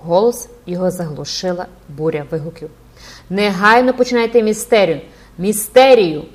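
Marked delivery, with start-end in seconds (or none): 3.3-6.2 loud chanting demand from the crowd; crowd shouting. A narrator's reading. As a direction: call it out like an impatient mob. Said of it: "кричала юрба".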